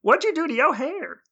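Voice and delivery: surprised sister voice. Retold or imitated. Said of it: "Zare shows up like".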